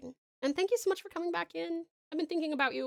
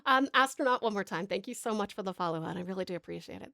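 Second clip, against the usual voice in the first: put-on streamer voice. Streamer greeting chat in a light put-on voice. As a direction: keep the playful put-on voice going. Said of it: "I'm glad you guys like this voice".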